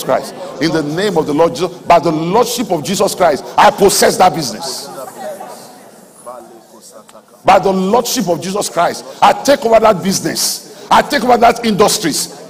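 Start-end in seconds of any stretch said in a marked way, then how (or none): 1.3-12.5 preacher modelling a bold claim; bold declaration. Shown as a demonstration. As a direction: declare it with full conviction. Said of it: "Talk like that".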